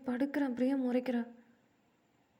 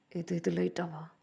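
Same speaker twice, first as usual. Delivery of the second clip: disbelief; 3 semitones lower, slower than usual. Acted. A rapper disbelieves "light fever.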